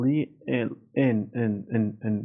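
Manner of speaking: ان said as a separate syllable, "en"; broken into syllables. Shown as a demonstration. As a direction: split lien and repeat ان. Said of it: "Lien نمیگم".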